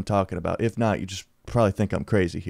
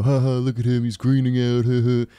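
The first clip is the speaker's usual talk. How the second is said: put-on jeering crowd voice; mocking laughter. Friends making fun of him greening out, mocking laughter. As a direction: jeer with a fake ha-ha. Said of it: "making fun of me".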